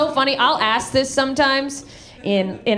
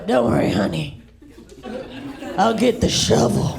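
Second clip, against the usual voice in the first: macho dad. Retold or imitated. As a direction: play the hero dad, drop the voice. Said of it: "you go".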